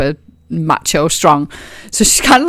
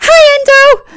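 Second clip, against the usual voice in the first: high Tyne greeting; 5 dB louder, faster than usual. Acted.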